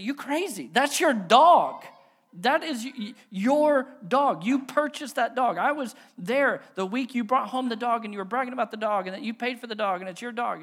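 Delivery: loud, high exasperated insisting; indignant neighbor. Retold or imitated. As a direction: shout it at him like he's lost his mind. Neighbor argues about the dog.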